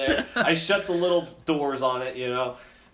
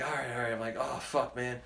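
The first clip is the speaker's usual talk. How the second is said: hushed whisper-talk; 2 semitones lower, 6 dB quieter than usual. Retold or imitated.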